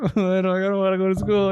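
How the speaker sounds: mock whiny kid protest; retold whining. Son told to go to school, whining. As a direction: imitate a reluctant child pleading with a parent.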